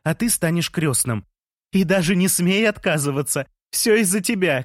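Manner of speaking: high, insistent cry; happy shouting. A narrator's reading. Lea appointing the narrator godfather, high happy shout. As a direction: order him about joyfully, voice high. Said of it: "крикнула мне Лея, уже заливаясь слезами".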